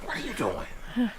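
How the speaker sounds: squeaky startled voice; high soft squeak. Retold or imitated. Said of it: "I don't tap her on the butt".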